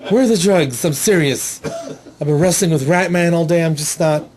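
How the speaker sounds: lightly effeminate superhero voice; a hint of effeminate comic-book interrogator; Catman voice. Catman interrogates a suspect after wrestling Ratman, lightly effeminate voice. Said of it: "he does sound like this".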